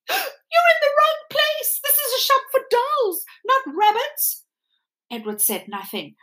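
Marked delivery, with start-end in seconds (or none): 0.1-4.5 snooty china doll. Acted. The china doll telling Edward he's in the wrong shop, haughty. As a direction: look down your nose as a vain doll.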